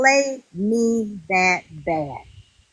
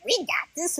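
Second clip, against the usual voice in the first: quiet, to yourself, much softer; a private, softer confidence; inner thought voice; 6 semitones higher, 7 dB quieter than usual. Retold or imitated. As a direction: say it in your head, hushed. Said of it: "in my mind".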